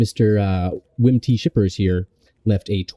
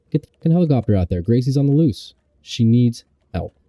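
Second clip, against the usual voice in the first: higher, fast urgent yelling; urgent outburst; 4 semitones higher than usual. Pretend. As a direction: demand it in a panic. Sudden outburst demanding helicopter.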